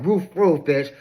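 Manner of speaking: yapping dog barks, rising high at the end; childish mock woof woof; mock barking. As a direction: bark like a bratty little dog. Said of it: "start barking and acting like a little child".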